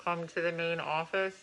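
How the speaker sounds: mock PA announcement; over the intercom. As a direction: nag her over the school speakers. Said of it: "You go, you".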